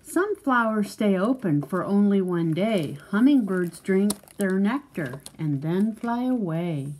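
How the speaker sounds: measured, lilting picture-book read; reading to a child. Acted. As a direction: read it out clearly for a young listener.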